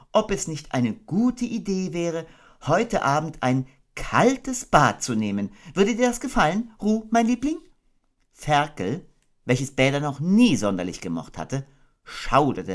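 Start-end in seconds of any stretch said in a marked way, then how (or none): 0.1-7.6 thoughtful Kanga. Acted. Kanga pondering a cold bath, thoughtfully.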